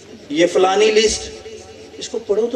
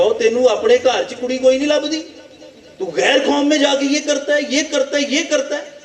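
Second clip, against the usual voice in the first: higher-pitched mock reproach; lightly acted exasperated parent; scolding father; 5 semitones higher than usual. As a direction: scold a wayward son, pitched up. Samson's father scolds his son.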